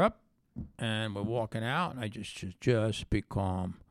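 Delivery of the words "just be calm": lightly voiced Brooklyn killer; mob killer voice. To the informant, a hint of a Brooklyn mob killer. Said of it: "I'm talking like a mob killer now".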